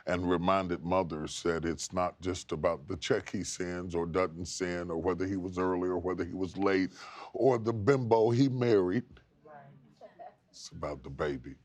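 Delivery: host's heartfelt closing to mothers and fathers; earnest closing appeal. Real, not acted. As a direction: drop the voice and speak from the heart.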